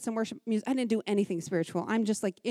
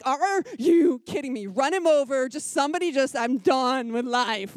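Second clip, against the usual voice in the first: louder, fed-up rant; exasperated outburst; 2 semitones higher, 4 dB louder than usual. Retold or imitated. Mom venting about the dog circling the bus, loud and fed up. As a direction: vent like you've hit your limit.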